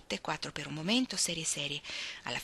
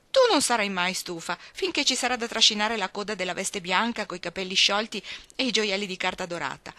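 louder, bossy stage-director sister; teasing Jo; 2 semitones higher, 6 dB louder than usual. Acted. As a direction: chide and coax, louder, like a director. Joe teases and directs rehearsal. (Jo che dirige la prova, a voce alta e decisa)

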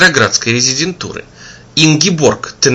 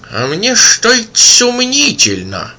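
sceptical drone; 10 semitones higher, slower than usual. A narrator's reading. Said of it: "прогудел кто-то ещё".

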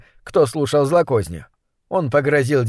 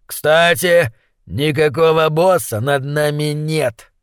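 reassuring thug; slower than usual. Acted. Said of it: "заверил крысолов номер один".

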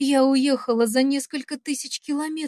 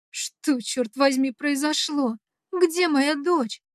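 slow desperate plea; 3 semitones higher, slower than usual. Acted. Mother frantic on phone.

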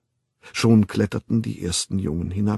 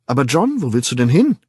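higher, louder call after someone leaving; 3 semitones higher, 6 dB louder than usual. Acted. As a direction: call out to him as he walks off. Linda calls after John.

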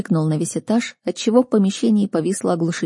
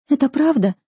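1 shocked question; 8 semitones higher than usual. Acted. Sister's disbelief.

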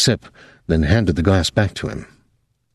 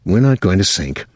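calm. Acted. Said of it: "Thomas said calmly".

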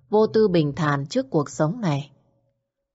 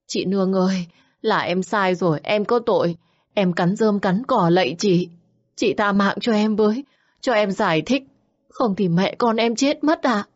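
higher, begging mistress, a touch of tears; tearful pleading; 3 semitones higher than usual. Acted. Xuyến on her knees begging Nương, mild tearful pleading. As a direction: plead for mercy on her knees, lightly weepy. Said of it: "chân khuỵu xuống khóc lóc".

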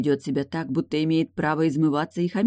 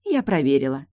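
languid. A narrator's reading. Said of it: "томно произнесла Тильда".

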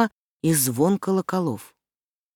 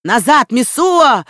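loud, higher, slow threatening yell; crowd shouting; 7 semitones higher, 7 dB louder, slower than usual. A narrator's reading. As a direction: bark her back from the boy. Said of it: "закричала толпа".

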